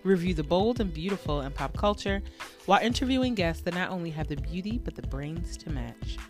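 smooth, measured promo voiceover; podcast intro read. Shown as a demonstration. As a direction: read the show intro as a polished announcer. Recorded podcast intro read over music.

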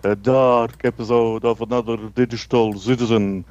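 lightly voiced vampire count host; spooky Count. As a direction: draw out words like a horror-show Count, lightly. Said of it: "I'm Count".

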